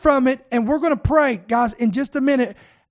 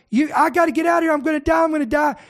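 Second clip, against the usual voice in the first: fast, higher, frantic cry; panicked shout; 3 semitones higher, much faster than usual. Retold or imitated. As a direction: yell it like you're about to die. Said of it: "She's like".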